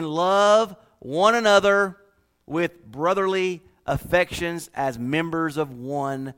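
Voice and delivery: slow, deliberate reading of the verse; scripture reading. Acted. Preacher reading verse ten aloud to church, slow and deliberate. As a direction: lay the verse out slowly for the church.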